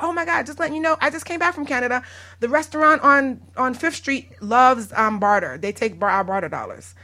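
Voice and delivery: mildly hammed-up enthusiasm; excited caller. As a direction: retell it as an eager phone tip. Voicing excited members phoning with tips.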